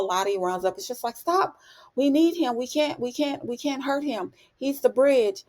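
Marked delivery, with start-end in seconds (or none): 1.2-1.6 a much higher, imitating cry of stop; urgent stop. Lottie stops the execution. 2.0-2.6 urgent plea. Retold or imitated. Lottie pleading to spare Coach. 2.6-5.4 high-pitched imitating plea; mock Lottie begging them to stop, pitched up; urgent plea. Lottie pleading to spare Coach.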